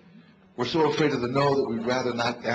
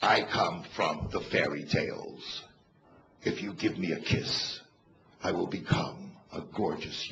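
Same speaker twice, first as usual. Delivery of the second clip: froggy voice; 6 semitones lower, 6 dB quieter than usual. Retold or imitated. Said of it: "you know that froggy voice?".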